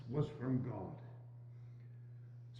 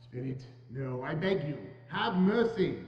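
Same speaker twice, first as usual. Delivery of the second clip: begging; 3 semitones lower than usual. Acted. Scrooge begging at grave.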